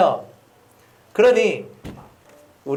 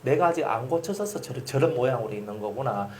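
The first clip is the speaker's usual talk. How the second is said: quiet inner reflection; 4 semitones lower, 6 dB quieter than usual. Retold or imitated. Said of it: "이렇게 여러분이 생각을".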